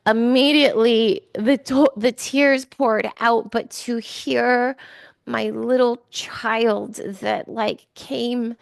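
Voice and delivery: choked up and tearful; fighting back tears as the memory hits; real tears. Real, not acted. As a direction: voice thick with real emotion. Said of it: "like, I'm crying".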